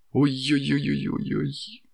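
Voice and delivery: high yelps of pain; pained yelping. Acted. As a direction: cry out after banging the knee. Knee hit, pain cries.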